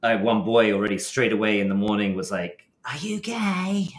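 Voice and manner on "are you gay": put-on boy asking. Boy confronts him at school.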